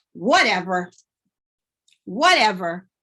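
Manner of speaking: loud dismissive "Whatever". Shown as a demonstration. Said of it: "Sometimes they're shouting".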